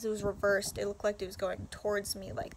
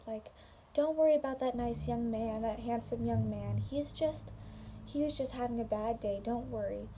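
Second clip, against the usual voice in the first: imitated mom. Mom telling her son not to worry, lightly imitated reassurance. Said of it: "I hear my mom talking to my brother".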